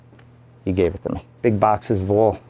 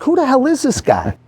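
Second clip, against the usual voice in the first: much higher, amazed question; stunned disbelief; 3 dB louder than usual. Retold or imitated. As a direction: sound floored by who he met. Realizes he met a legend.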